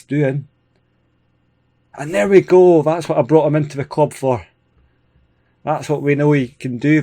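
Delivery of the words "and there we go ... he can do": excited goal cheer. Real, not acted. Gamer cheering his striker's goal, excited and loud. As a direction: cheer the goal you just watched go in.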